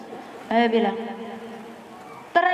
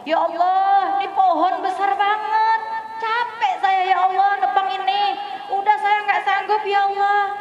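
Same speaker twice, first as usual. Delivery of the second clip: weary complaint; 4 semitones higher than usual. Retold or imitated. Weary woodcutter complains to Allah.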